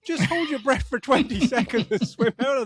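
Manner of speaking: high-pitched exasperated telling-off; mock exasperation. Telling the old lady to swim out, comically exasperated. Exasperated at film character, others laughing.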